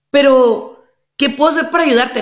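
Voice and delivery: a worried partner begging to help; anxious pleading. Acted. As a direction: rush to offer help.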